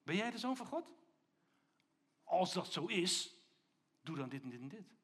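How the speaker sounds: lightly voiced sceptical challenge; challenging tempter's voice. Tempting voice to Jesus in the desert, sceptically challenging. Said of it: "kwam die stem bij Jezus en die zei".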